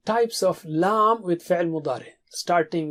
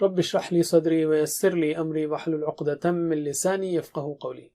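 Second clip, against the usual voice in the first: opening prayer recitation; 3 semitones lower, faster than usual. Real, not acted. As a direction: open the lesson with a devout prayer. Opening dua before lesson.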